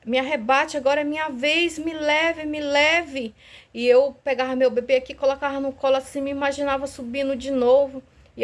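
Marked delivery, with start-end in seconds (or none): 0.0-3.3 a touch of impatient annoyance in the prayer; mildly irritated plea, a little higher; half-angry. Retold or imitated. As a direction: pray half-crossly, demanding to be taken. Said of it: "meia brava".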